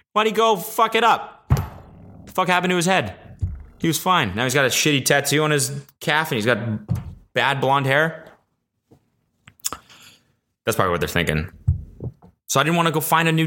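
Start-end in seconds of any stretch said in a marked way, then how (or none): 0.1-8.3 gossipy gym guy. Retold or imitated. Gym regulars' imagined thoughts.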